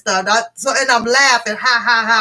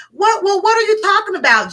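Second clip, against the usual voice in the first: raised, baffled voice imitating a confused man; mock confused man; 8 semitones higher than usual. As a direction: play him lost and baffled, pitched up. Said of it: "Nigga all confused now".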